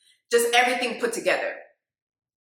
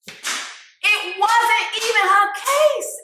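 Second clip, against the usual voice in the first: high, drawn out word by word; slow emphatic repeat; 8 semitones higher, much slower than usual. Real, not acted. Hyping the rapper's courtroom bar, slow and emphatic. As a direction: stretch every word for emphasis.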